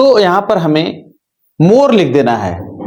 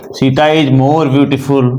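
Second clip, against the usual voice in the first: very slow, every word spaced for copying; slow dictation; 5 semitones lower, much slower than usual. Shown as a demonstration. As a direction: read the example out for notes. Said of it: "teacher dictating the example". (धीरे-धीरे लिखवाते हुए)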